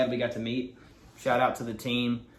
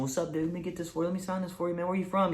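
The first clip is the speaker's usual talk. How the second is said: higher, softer voice, quickly reassuring; encouraging; 5 semitones higher, 6 dB quieter, faster than usual. Retold or imitated. Star talking to a nervous twelve-year-old, gently encouraging. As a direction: imitate a star gently putting someone at ease. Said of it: "give him a little inspiration".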